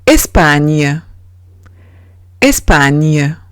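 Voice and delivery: slow model "España", gn said as ñ; French gn as ñ. Shown as a demonstration. Teacher giving learners an example of gn, slow ñ sound. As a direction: say "España" slowly, French ending, ñ in the middle. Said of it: "es igual que una ñ".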